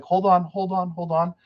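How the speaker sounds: high, urgent call to wait; urgent hold on. Retold or imitated. Guide yelling at Carol to wait before she casts, pitched high. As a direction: cry out to stop her casting. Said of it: "Carol's like".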